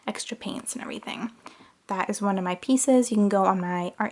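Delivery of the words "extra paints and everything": whisper. Real, not acted. Listing art supplies.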